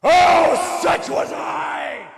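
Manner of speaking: Grim Reaper voice. Acted. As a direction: intone it like a ghostly messenger. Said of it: "knock off the Grim Reaper voice".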